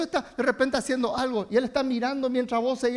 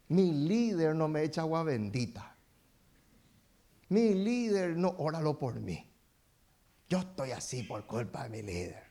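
whiny complainer; 5 semitones lower, 4 dB quieter than usual. Retold or imitated. Mocking complaining church member.

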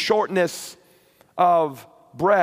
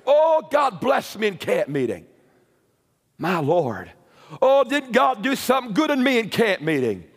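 joyful believer; 3 semitones higher than usual. Acted. Believer voiced, laughing.

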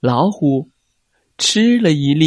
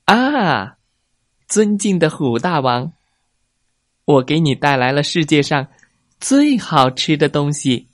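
flattering fox; 3 semitones higher than usual. Acted. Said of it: "他带了一大包礼物".

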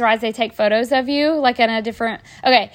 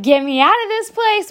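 a high, mock panicked plea; imitated panic; 8 semitones higher than usual. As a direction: play the scared mom wanting out. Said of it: "my mom panicked".

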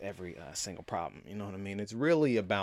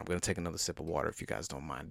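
usual speaking voice

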